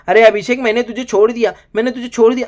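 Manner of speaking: mock sing-song. Reviewer mocking Nehal telling Abhishek she let go, teasing. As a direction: sing it out like a taunt.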